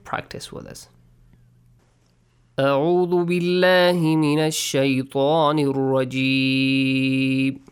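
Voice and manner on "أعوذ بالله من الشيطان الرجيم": Quran recitation. Acted. Leads recitation.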